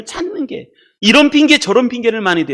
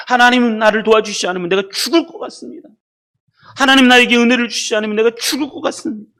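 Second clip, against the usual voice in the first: understated pleading, slightly raised pitch; desperate prayer; 4 semitones higher than usual. Acted. Preacher voices a desperate person praying to God, mild pleading. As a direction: plead with God with a touch of urgency. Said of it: "그 안에 절박함이 있어요".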